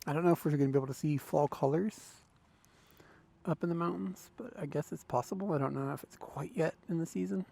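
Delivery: muffled, speaking inside a helmet; talking through a closed helmet. Real, not acted. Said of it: "we'll see if we're in the helmet".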